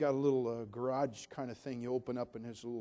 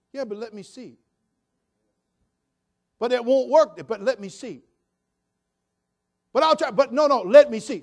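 mocking stubborn believer; 10 semitones higher, 17 dB louder than usual.

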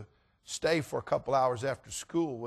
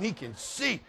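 higher, astonished repeat; indignant realization; 4 semitones higher, slower than usual. Retold or imitated. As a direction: pitch it up in disbelief. Realization repeated with rising outrage.

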